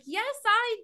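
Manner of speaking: high, loud, stretched-out delighted yes; gleeful, drawn-out enthusiasm; eager acceptance. Acted. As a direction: jump at the offer, dragging out the words and breaking into laughter. Eagerly accepts offer in acted exchange.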